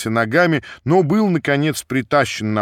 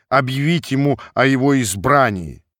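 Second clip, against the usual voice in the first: plain reading voice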